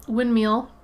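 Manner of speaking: "windmill" ending like "meal"; "windmeal" pronunciation. Shown as a demonstration. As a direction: say "windmill" with ee in the last syllable. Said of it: "I say windmill".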